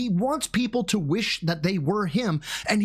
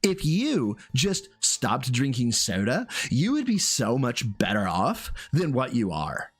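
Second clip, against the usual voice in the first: lightly voiced condescending put-down; mock Phil Burnell; 4 semitones lower than usual. Streamer mimicking Phil belittling overweight people, mock condescending. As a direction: imitate a self-satisfied lecturer, a bit lower. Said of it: "And then I got Phil".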